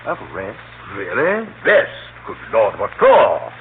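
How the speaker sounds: stunned, indignant disbelief; incredulous surprise. Acted. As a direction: caught off guard by the murder charge, incredulous. Accused of murder, incredulous.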